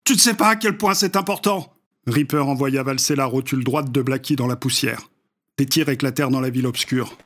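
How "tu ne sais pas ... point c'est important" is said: high, strained pleading; desperate plea. Acted. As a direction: plead through the pain. Beaten charlatan pleading with attacker.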